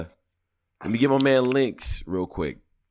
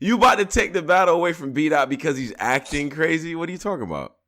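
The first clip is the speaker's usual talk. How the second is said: incredulous; 6 semitones higher than usual. Real, not acted. Incredulous at friend's take.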